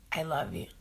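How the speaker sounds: whispered goodnight, almost asleep; sleepy whisper. Retold or imitated. Saying goodnight to Michael while half asleep, whispered. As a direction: breathe it like you're drifting off.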